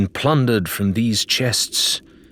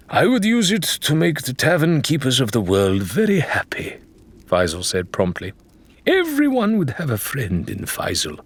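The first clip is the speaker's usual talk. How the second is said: high, bright-hearted sailor voice, pitched up; Faisal's cheery voice; 7 semitones higher than usual. Acted. Faisal dreaming aloud to the crew, jolly and high. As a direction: play the jolly tavern-loving pirate.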